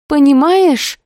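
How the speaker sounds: usual speaking voice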